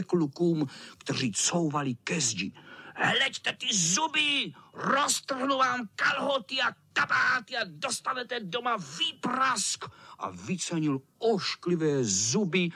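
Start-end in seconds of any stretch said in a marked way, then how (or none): 2.9-9.8 menacing cat. A narrator's reading. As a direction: menace them with relish. Cat bares teeth at boys.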